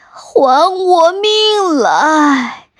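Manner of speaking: slow, high, crying ghost shout; ghost wail. Acted. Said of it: "还生气地哭喊着".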